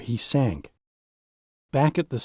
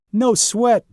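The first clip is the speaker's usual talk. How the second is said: shrugging it off; 9 semitones higher, 4 dB louder than usual. Acted. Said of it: "Donald shrugs".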